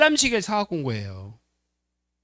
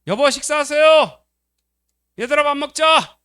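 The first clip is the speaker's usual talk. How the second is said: calling out; 10 semitones higher, 10 dB louder than usual. Retold or imitated. Wife calling husband and kids to dinner, loud sing-song call. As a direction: call the family from the kitchen.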